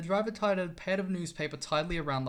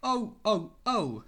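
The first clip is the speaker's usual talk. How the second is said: a higher, louder moan from the trucks; grumbling trucks; 4 semitones higher, 5 dB louder, slower than usual. Acted. Sulky trucks moaning at James, higher and louder. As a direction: trucks complaining as the engine backs onto them.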